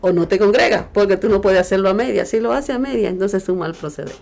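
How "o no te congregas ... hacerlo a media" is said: loud, emphatic, punching each either-or; forceful preaching. Retold or imitated. Preacher voicing the Lord to the congregation, loud and emphatic. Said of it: "dice el Señor".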